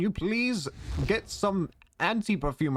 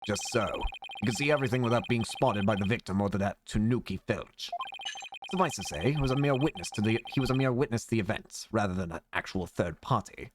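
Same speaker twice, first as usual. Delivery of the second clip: low, smooth and confident; smooth prosecutor voice; 5 semitones lower than usual. Acted. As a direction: purr it like a cool rival.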